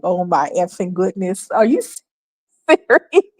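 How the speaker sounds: exasperated, breaking into a laugh; can't believe it, laugh through it; laughing disbelief. Retold or imitated. Vlogger reacting to the stubborn answer, exasperated and laughing. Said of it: "I'm like".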